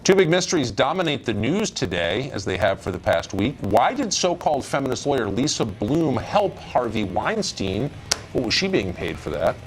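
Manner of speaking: swooping, emphatic anchor read; news tease read. Acted. Anchor teasing viewers with two big mysteries, news tease read. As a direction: tease the coming stories with punched key words.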